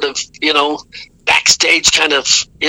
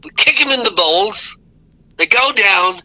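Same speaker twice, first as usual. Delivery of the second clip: quoting Steve Harris; 2 semitones higher than usual. Retold or imitated. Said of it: "and I'm gonna quote him".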